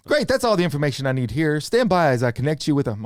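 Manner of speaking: mock phone-system announcement; robot caller voice. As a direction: robocall script read-out. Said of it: "they like to call with the robot voice".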